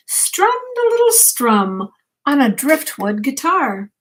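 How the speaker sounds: put-on bedtime story read to a child; reading aloud. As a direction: gently read the picture book to the grandchild. Reads picture book aloud.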